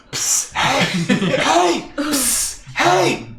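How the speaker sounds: loud stage whisper. Acted. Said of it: "Stage whisper across the water".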